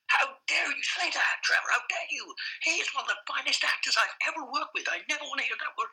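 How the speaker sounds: mock outrage, pitch up high, each word hammered; imitated furious outburst. Director defending an actor to Trevor, in mock fury. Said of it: "David went fucking ballistic at me".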